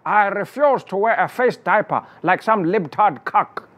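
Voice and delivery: mock Mandela quote. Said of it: "how Nelson Mandela said".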